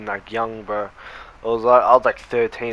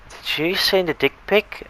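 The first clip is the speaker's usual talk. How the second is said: mock stern teacher; 7 semitones higher than usual. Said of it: "the teacher was all like".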